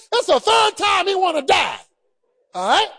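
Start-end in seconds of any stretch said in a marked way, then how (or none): 0.1-1.8 emphatic shout. Shown as a demonstration.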